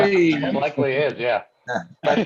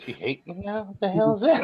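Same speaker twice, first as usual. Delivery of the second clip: mock indignant; 9 semitones higher than usual. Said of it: "I'm like".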